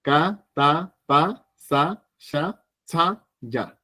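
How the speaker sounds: unaspirated syllables, "Ka, ta, pa"; basic consonants. Shown as a demonstration. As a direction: say "Ka, ta, pa, sa" lightly without air. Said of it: "Básica".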